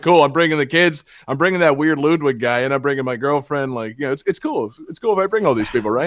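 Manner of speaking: bad Donald Duck impression; a weak stab at the Donald Duck voice. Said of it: "that's a terrible Donald Duck impression".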